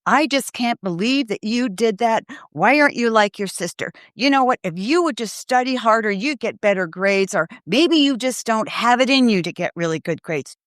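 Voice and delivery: lightly acted disapproving parent, pitched a little up; critical put-down. Parent comparing child to a sister over grades, mild mock criticism. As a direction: imitate a parent putting a child down, mildly exasperated. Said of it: "Never put them down".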